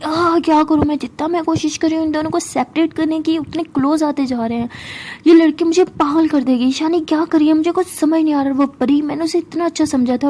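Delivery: fuming grandma muttering to herself; angry grumble. Acted. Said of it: "गुस्से में अपने room में चली जाती है और कहती".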